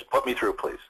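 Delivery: just this side of nasty; brisk instruction, not a request; firm, not nasty. Shown as a demonstration. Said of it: "Just like that".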